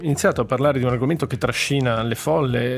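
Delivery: dry, understated sarcasm; sarcastic. Real, not acted. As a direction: say it with a touch of real irony. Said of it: "Sento il sarcasmo nella tua voce".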